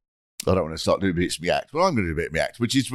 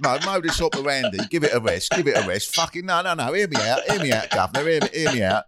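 blustering mock Cockney, higher in bursts; insistent Cockney pleading to be heard; Cockney accent; 3 semitones higher than usual. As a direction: talk over objections in put-on Cockney. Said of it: "imagine that in a Cockney accent".

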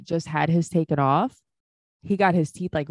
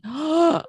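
touched gasp; 9 semitones higher than usual. Real, not acted. Moved by the child's greeting.

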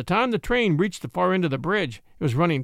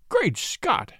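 mild startled gasp, pitched higher; gasped exclamation; 5 semitones higher than usual. A narrator's reading. Deputy finds a pistol aimed at him, gasping. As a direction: gasp it in shock, lightly acted. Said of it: "gasped Brown".

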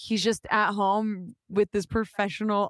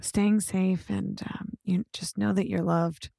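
low mock radio sign-off; 3 semitones lower than usual. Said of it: "I go in my radio voice".

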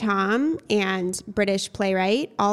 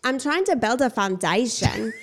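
Anna Delvey impression; 2 semitones higher than usual. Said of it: "my Anna Delvey impersonation".

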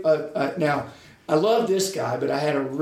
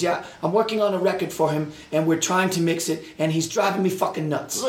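put-on German accent; 5 semitones higher than usual. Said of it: "in that thick German accent".

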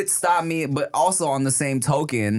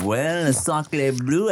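put-on French accent; much slower than usual. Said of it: "You sound like a French idiot".

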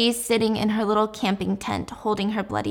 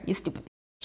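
hissed insult; 11 dB quieter than usual. Retold or imitated. Retold K-drama mom's insult.

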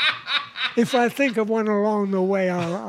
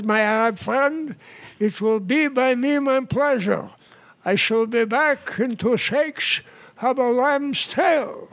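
lightly voiced Jewish-accented joke character; 3 semitones higher than usual. Jewish passenger obliges his Arab seatmate, light Jewish accent. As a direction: agree graciously with a touch of Jewish accent. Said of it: "The Jewish guy says".

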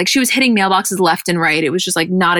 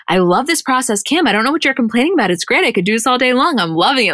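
higher-pitched mock delight; imitated gushing; 5 semitones higher than usual. Mom on set telling daughter she loves it, gushing. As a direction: gush as the mom loving every minute. Voicing Chris enjoying the shoot.

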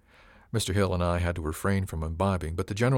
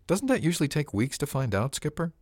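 higher-pitched, pointed question; questioning crewman; 8 semitones higher than usual. A narrator's reading. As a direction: voice a crewman querying the skipper. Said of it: "put the point on it".

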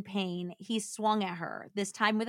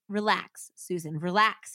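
soothing. Acted. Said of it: "almost as if he were giving her a massage".

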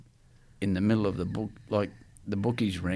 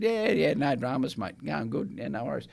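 higher, overly cheery reassurance; covering for the captain, bright and higher; fake breezy; 5 semitones higher than usual. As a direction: act like nothing's wrong. Covering up, falsely cheerful reply.

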